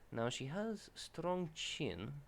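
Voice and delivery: hammed-up, drawn-out Russian accent; Zarya's Russian accent. Artist describing a drawing as the character, bad Russian accent. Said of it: "I'm gonna drop that".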